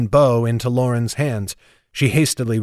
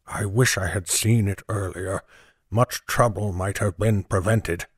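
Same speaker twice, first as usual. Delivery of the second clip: hushed whisper; 4 semitones lower, 5 dB quieter than usual. A narrator's reading. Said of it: "he whispered".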